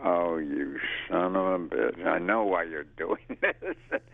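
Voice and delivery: slow, knowing mutter with a laugh; realizing the prank, amused; slow, wry inner grumble; inner curse. Retold or imitated. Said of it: "And I'm like".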